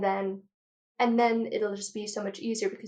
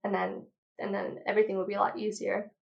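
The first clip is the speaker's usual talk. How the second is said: out of breath. Real, not acted. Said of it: "I'm just out of breath".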